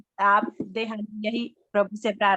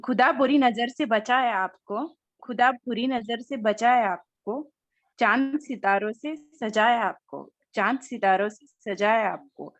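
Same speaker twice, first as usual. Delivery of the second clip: reciting poetry. Acted. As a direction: recite a shayari couplet by couplet. Recites a birthday shayari.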